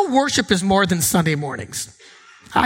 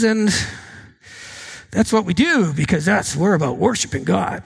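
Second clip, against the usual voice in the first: a tired, half-hearted Sunday attendee; bored churchgoer; 2 semitones lower than usual. Pretend. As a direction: mutter like a reluctant pew-sitter. Acts out a bored churchgoer's inner monologue.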